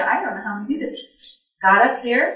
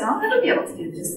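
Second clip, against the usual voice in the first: retold panic; 10 semitones higher, faster than usual. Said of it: "I said".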